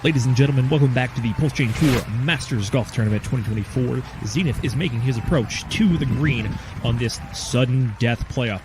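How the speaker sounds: hushed golf commentary voice; calm play-by-play on the green; golf commentator. Acted.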